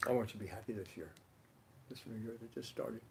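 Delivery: gentle, sincere greeting sinking to a hush; heartfelt wish. Acted. Greeting Stephen with a hug at New Year, heartfelt and gentle. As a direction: wish them well tenderly, letting it fade.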